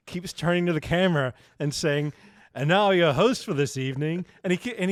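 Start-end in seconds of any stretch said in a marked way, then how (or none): 2.5-4.3 mock Liverpool accent. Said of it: "he's doing, like, a mock".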